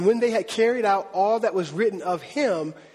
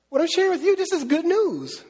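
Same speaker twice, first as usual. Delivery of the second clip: excited emphasis; 8 semitones higher than usual. Retold or imitated. Preacher voicing Paul to the crowd, eagerly stressing good news. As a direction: sell it as the best news ever.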